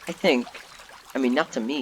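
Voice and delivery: ordinary talk, nothing marked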